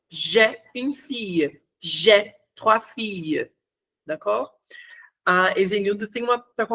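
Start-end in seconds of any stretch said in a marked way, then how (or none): 0.1-3.5 j'ai une fille, j'ai trois filles said slowly, j'ai as "że"; slow French demo. Shown as a demonstration. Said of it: "aí tem o som de é".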